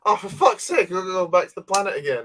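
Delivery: sick of flying back to that planet again; exasperated Mando. Retold or imitated. Host voices Mando fed up with going back to the planet, mock exasperation. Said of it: "Mando goes".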